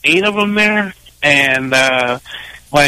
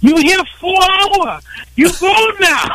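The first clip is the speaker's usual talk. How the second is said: mock Asian accent; 11 semitones higher than usual. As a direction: scold in a caricatured Asian accent, pitched up. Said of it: "heard you doing it".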